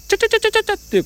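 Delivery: high, fast ちょちょちょ tapping noise; rapid tapping sound. Shown as a demonstration. Showing his father how to tap the icon quickly, high and fast. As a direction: rattle it off like tiny taps. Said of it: "こう小さく".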